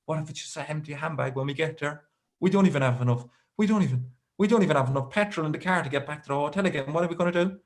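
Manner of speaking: imitating a fretting wife, rushing in bursts; hurried worry, lightly acted; mild retold panic. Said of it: "kind of panicking".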